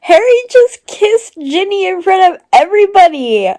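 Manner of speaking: high and loud with delight; excited squeal. Real, not acted. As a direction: blurt it out, thrilled. Reacting to a kiss.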